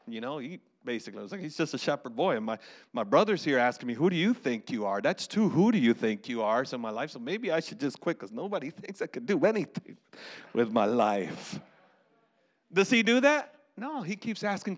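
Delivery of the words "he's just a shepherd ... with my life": low, mock-dejected self-pity; defeated retreat. David imagined quitting after his brother's scorn, defeated. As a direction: act out giving up, voice sinking. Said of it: "would just retreat and say, "Okay, I'm done".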